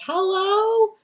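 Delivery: very high cat-like hello; imitating a cat. Owner mimicking her cat's hello, high chirp. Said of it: "She's like".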